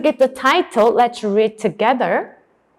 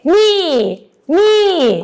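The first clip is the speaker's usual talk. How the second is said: raised, higher drill word; emphatic teacher's model; loud drilling; 6 semitones higher than usual. Shown as a demonstration. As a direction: call it out for pupils to repeat. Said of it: "you should say louder than me".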